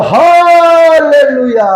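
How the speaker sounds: long, slow, high and loud 할렐루야; shouted hallelujah. Real, not acted. Preacher rousing the congregation, drawn-out shouted hallelujah. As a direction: stretch it out and shout it to the rafters. Climax of sermon point.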